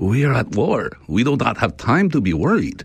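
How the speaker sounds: put-on Ukrainian accent. Quoting a man answering questions about how worried he is, imitating a ukrainian accent. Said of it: "this dude with the Ukrainian accent was just like".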